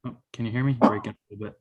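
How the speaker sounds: choppy call audio cutting out; glitchy dropping connection; breaking up audio. Real, not acted. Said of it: "your audio is breaking up".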